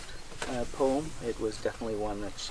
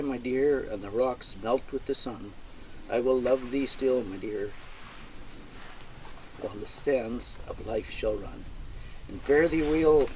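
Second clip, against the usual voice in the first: poem recital; 2 semitones higher than usual. Acted. Reads the Burns poem aloud.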